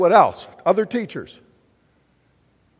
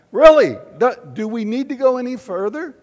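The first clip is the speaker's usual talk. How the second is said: playful excitement; 7 semitones higher, 9 dB louder than usual. Acted. Joking after recitation.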